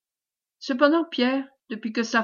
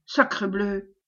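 growled oath; 2 semitones lower, slower than usual. Acted. Commander stopped at the door, grumbling in mild anger. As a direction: mutedly growl the oath in annoyance. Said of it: "gronda-t-il".

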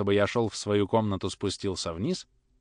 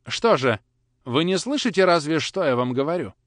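stern impatience; 5 semitones higher, 5 dB louder than usual. Acted. Grandmother demands obedience.

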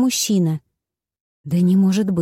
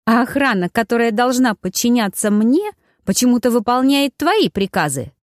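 higher-pitched indignation, building to the end; indignant complaint; 5 semitones higher than usual. Acted. Woman accusing her accomplice over the guards, indignant. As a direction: protest it, pitch climbing. Angry quarrel, complaining of orders.

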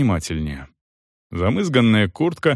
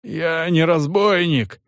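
hoarse; 7 semitones higher, slower than usual. A narrator's reading. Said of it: "хрипло произнёс мужик".

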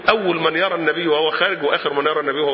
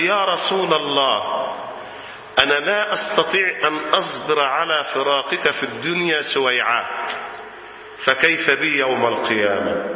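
sorrowful confession; 2 semitones lower, slower than usual. Acted. Servant tells the Prophet his fear of separation, mildly sorrowful. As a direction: confide it gently, drawing out each phrase.

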